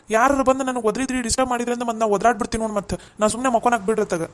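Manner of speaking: exasperated son demanding to be left alone; irritated warning. Acted. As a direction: scold them for disturbing your rest. Son warns family off his nap.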